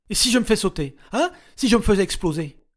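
high, loud taunting threat; defiant shout. A narrator's reading. Regina taunting her captors, loud defiance. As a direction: dare them.

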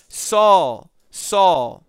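loud calling voice from heaven. Acted. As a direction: call his name out loud twice.

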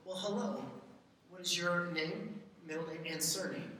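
a polite stranger oddly interviewing an infant; stiff formal adult to a baby. Retold or imitated. Parent mocking how not to greet baby Ivy, stiffly formal. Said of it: "No, you don't talk like that".

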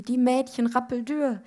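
high, drawn-up mock wail; wailing mother. A narrator's reading. Mother laments the skinny girls, high mock wail. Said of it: "heulte Mutti".

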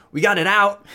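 high, squeaky kobold, proud of herself; a little kobold showing off the stinger. Acted.

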